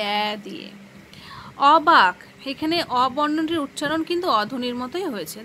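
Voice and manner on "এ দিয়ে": এ whispered as an open æ sound; whispered demo. Shown as a demonstration. Teacher showing pupils how এ is said, whispered. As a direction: breathe এ out as æ, no voice. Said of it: "কিন্তু উচ্চারণ করছি".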